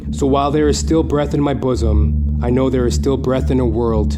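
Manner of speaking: theatrical rant over music; dramatic monologue. Acted. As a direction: declaim it like a wounded artist.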